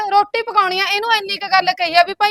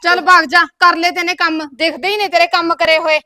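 dismissive; 4 dB louder than usual. Acted. Quarrel between sisters-in-law.

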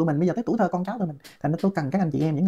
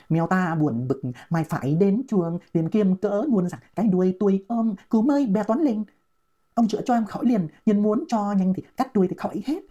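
reads the poem slowly, like a recital; slow poem reading; 2 semitones higher, slower than usual. Shown as a demonstration. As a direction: recite each line slowly and clearly. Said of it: "các bạn nghe tôi đọc". (đọc thơ chậm rãi như ngâm thơ)

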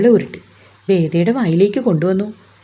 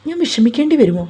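voice thinning; 6 semitones higher than usual. A narrator's reading. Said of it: "അവളുടെ ശബ്ദം നേർത്തുപോയി".

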